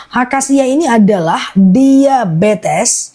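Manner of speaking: slow, drawn-out product explanation; slow repeat. Real, not acted. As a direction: say it slowly for the listeners. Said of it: "Aku ulang pelan-pelan ya". (diulang pelan-pelan)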